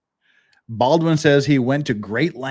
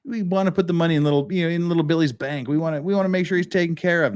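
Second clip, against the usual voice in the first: fast, higher, hammed-up caring tone; pretend speech; 4 semitones higher, much faster than usual. Imagining Baldwin naming the kid, a quick mock sweet tone. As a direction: rattle off a fake heartfelt promise. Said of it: "he would have said".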